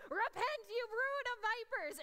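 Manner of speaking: loud, high fiery call to repent; booming prophet shout. Retold or imitated. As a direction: thunder it out like John the Baptist. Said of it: "in a voice that I have never heard".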